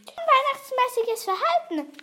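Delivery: high, loud goblin proclamation; indignant goblin. Acted. Fliegenbart recites the court's charges, high and indignant. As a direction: call out the charge in a piping voice.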